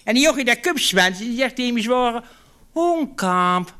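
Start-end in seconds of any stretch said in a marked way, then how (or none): 2.7-3.7 slow whiny call. Retold or imitated. Farmhand calling his boss.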